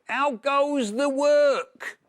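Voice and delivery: high, slow, loud bossy call; farmer calling. Acted. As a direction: bellow it down like a lazy farmer. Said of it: "called the farmer".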